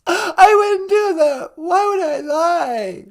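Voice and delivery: hammed-up sob on a pleading denial; fake crying. The caller pleads innocence to the host through mock tears. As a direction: whimper it out as if wronged.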